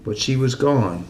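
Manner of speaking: measured poem recital with long pauses; deliberate verse cadence; poetry reading. Acted. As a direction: let the poem's ending settle, line by line. Reads own poem aloud.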